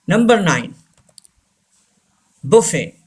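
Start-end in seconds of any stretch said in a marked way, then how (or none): 2.4-3.0 "buffet" said as bo-fay; silent T. Shown as a demonstration. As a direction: end "buffet" on the vowel, no T. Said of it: "टी is silent". ("buffet" में टी silent, "बोफ़े")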